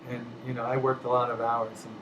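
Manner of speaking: words stretched by a yawn. Real, not acted. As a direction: talk through a yawn. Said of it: "Please excuse my yawning".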